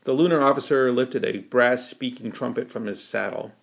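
ordinary delivery

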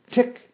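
high, short spoken ticks; mechanical ticking. A narrator's reading. Metal man ticks between phrases, high mechanical ticking. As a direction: tick like clockwork, high and evenly spaced. Metal man's clockwork tick.

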